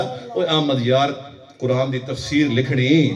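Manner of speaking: slow, low, measured summons; solemn retold command. Preacher retells a command heard in a dream, solemnly.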